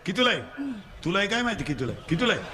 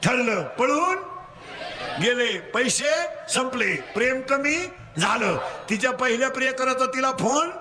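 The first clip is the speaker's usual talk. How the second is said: call-and-response preaching; 5 semitones higher than usual. Real, not acted. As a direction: leave the end rising for them to finish. Call and response story with children. (पोरांकडून वदवून घेणारा चढा सूर)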